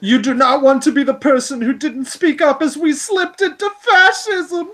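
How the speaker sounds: high, theatrical mock outrage; mocking dramatic voice. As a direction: overact the outraged activist.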